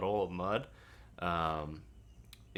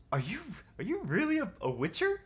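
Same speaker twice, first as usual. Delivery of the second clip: bard Oslo voice; 3 dB louder, faster than usual. Acted. Oslo voiced by game master.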